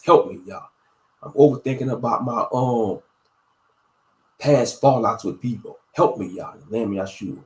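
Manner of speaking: earnest, pleading prayer; spoken prayer. Shown as a demonstration. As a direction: plead with Yah, steady and sincere. Models a simple prayer.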